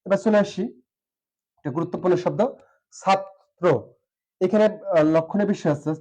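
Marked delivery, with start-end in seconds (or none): 3.0-3.7 "ছাত্র" as chhat, pause, tro; syllable-split demo. Shown as a demonstration. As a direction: break "ছাত্র" after the t. ("ছাত্র" ভেঙে ছাত-ত্রো)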